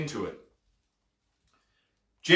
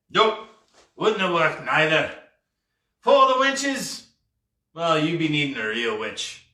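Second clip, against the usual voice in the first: lightly voiced pirate dismissing his own idea; pondering pirate captain. Pirate deciding only a real witch will do, pondering. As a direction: reason it out in salty talk.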